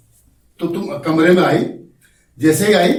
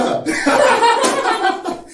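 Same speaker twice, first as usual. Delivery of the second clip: big, high-pitched open laugh; high burst of laughter. Shown as a demonstration. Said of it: "यह है हास्य रस".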